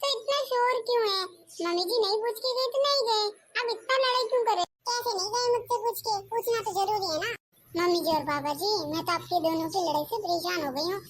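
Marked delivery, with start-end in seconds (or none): 0.0-7.3 slightly higher, nagging mother-in-law. Acted. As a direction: complain like a fussy saas. (थोड़ी ऊँची आवाज़ में सास)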